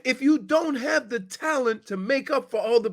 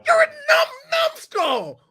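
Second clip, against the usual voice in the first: playful mock insult; 11 semitones higher, slower than usual. Real, not acted. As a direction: call him a numbskull with mock scorn.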